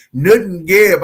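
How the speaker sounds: country twang Newton Gibb. Shown as a demonstration. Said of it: "I don't got that country twang in my voice".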